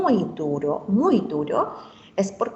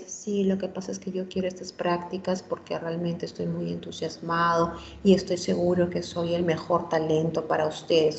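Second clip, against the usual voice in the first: deliberately flat monotone, softer, no energy at all; flat, no enthusiasm; 3 semitones lower, 3 dB quieter than usual. Shown as a demonstration. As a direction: say the eager words as if bored, volume down. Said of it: "una comunicación totalmente plana". (voz plana y apagada, sin nada de entusiasmo)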